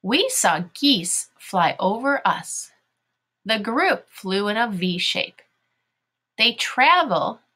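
slow, deliberate read-along; measured classroom reading; reading to children. Shown as a demonstration. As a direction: read word by word so pupils can follow.

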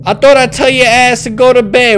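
playful angry parent telling off; mock parental scolding. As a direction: scold a child like a fed-up parent. Scolding the game's child.

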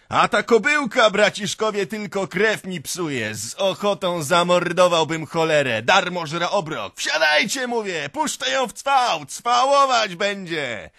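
raucous high rant at full voice; shouting. A narrator's reading. Drunk owner cursing his mare from the cart, shouting. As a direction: bellow angrily, building to a wild holler. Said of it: "krzyczy z wozu".

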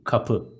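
Kapı again as two short syllables, weight on PI; Kapı, short ka then a stressed PI; stress on the second syllable. Shown as a demonstration. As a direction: model Kapı for the class, ka-PI. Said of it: "One more time".

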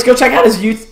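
excited plug with a cracking voice. Real, not acted. Streamer plugging a friend's channel, voice crack. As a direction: let the voice crack mid-shout-out. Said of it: "Oh god, voice crack".

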